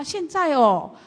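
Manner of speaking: incredulous glance around. Retold or imitated. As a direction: let the disbelief rise as you check who's watching. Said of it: "他就看看大家".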